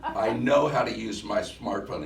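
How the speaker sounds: laughing, mock-indignant retort; attitude. He laughs back at the smart-aleck kid with mock attitude. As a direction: play the offended older man, half-laughing. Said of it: "I did cop a little attitude".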